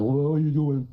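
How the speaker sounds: mimicking the ex crawling back, lightly voiced; puppy-dog Jason. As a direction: imitate him coming back all puppyish. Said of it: "like a puppy dog every time going".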